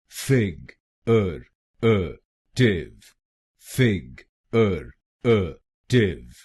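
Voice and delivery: फिग, अर, अ, टिव drawn out slowly, one syllable at a time. Shown as a demonstration. Teacher breaking the word into syllables, slow and separated. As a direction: spell फिगरेटिव out slowly in separate beats. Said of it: "तो बनेगा फिगरेटिव".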